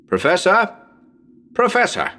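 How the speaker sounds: high anxious calls; Professor? then Professor! called high; calling out. Acted.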